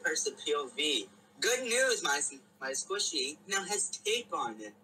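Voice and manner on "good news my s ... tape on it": excited opener. Acted. Reading own old story aloud.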